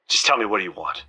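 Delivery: tired, soft, after a sigh; weary hush. Acted. Penny answering Tina's demand, weary and hushed. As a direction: give in with a low, worn-out voice.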